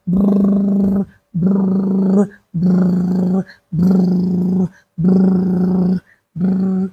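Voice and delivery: playful lip buzz, repeated; lip trill. Real, not acted. Amusing the crying baby with a lip trill. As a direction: buzz the lips like a motor.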